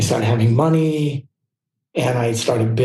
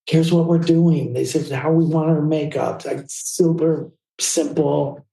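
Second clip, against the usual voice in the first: a hint of British accent, higher voice; British photographer; 4 semitones higher than usual. Photographer briefs makeup artist on the look, lightly imitated British accent. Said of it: "He's this British photographer".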